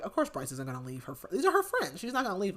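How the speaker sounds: words breaking into real laughter; amused retelling, laughing mid-sentence. Real, not acted. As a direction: laugh through the line. Laughing while retelling the plot.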